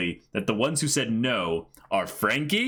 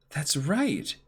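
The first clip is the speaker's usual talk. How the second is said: whisper; 4 semitones higher than usual. Acted. Nami suddenly remembering.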